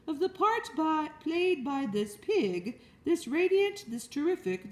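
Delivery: high, ringing public-address call; loudspeaker announcer. Acted. Loudspeaker addressing the fair crowd, grand announcer. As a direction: hail the whole fairground. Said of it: "continued the loudspeaker".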